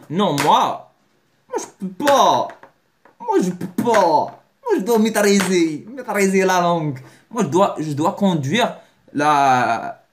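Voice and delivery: fake-cry like a spoiled beginner; mock whining. Imagined learner whining about Ferrari.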